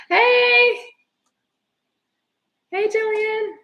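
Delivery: high, loud squeal of hello; delighted sing-song hello; excited greeting. Real, not acted. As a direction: greet her like a long-lost friend.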